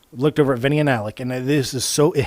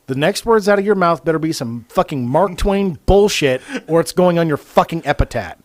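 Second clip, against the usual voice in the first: in-character yell; 3 semitones higher, 4 dB louder than usual. Retold or imitated. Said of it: "in character yell out".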